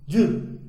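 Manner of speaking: "ju" blended into one syllable, starting like "dj"; Japanese-style "ju", short and joined up; native Japanese pronunciation. Shown as a demonstration. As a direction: run the sounds together as a single "ju". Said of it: "É assim que eles pronunciam".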